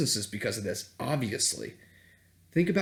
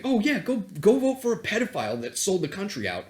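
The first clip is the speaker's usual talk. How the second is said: higher, mocking sing-song with a loud Ooh; sarcastic mockery; 8 semitones higher, 5 dB louder than usual. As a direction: sneer at the self-righteous critic.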